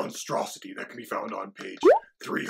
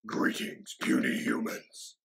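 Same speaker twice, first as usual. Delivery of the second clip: booming arrogant alien overlord; slower than usual. Acted. Dragon puppet greets audience.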